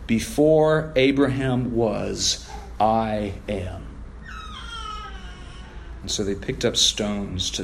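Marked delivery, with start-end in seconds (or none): 0.1-3.8 solemn hush. Shown as a demonstration. Preacher reading Jesus's words to the church, slow and hushed. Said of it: "Jesus gives an emphatic answer".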